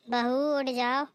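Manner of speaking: slow drawn call to wake the bride. Acted. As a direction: stretch बहू out in a rising call. (बहू को ज़ोर से पुकारना)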